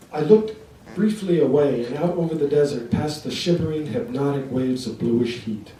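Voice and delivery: long rolling phrases that settle downward; measured literary recitation; poetry reading. Acted. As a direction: read your poem aloud to an audience, each phrase starting firm and tailing off. Reads own poem aloud.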